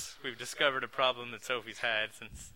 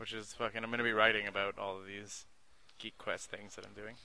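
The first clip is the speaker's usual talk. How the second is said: ordinary talk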